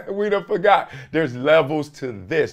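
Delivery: amused, laughing as you repeat it. Real, not acted. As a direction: say it through a chuckle. Laughs, then repeats the line.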